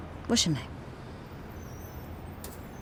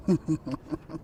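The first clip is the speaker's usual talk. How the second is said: chuckle. Acted. Friends recalling the robber's broken nose, chuckle. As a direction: chuckle at the damage done.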